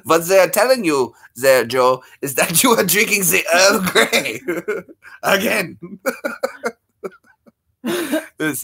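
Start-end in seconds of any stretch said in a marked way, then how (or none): 0.0-5.8 put-on German accent. Keeps up requested German accent.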